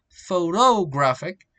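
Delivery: "photographic" slowly split, weight moved off the first syllable; adjective stress. Shown as a demonstration. Teacher showing the adjective, "photographic" with shifted stress. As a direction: draw out the inner syllables of "photographic". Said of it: "to the adjective is".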